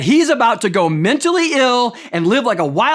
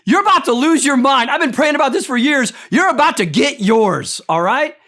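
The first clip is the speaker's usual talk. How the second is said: gloating taunt; 4 semitones higher than usual. Pretend. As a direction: rub it in like a smug preacher. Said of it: "here's how I would deliver this message to the king".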